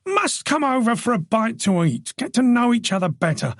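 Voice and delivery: a bluff, friendly husband glad-handing a guest; hearty host Joe. Acted.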